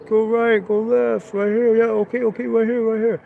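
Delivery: high, loud voice calling out from the back seat; imitating a passenger shouting directions; mock calling directions. Passenger directing from truck bed.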